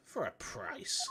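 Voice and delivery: whisper. Acted. Con hinting at shady dealer.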